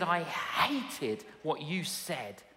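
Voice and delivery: a hint of a surly young woman; sulky girl. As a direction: play the rude girl, sulking. Girl voiced in retold story.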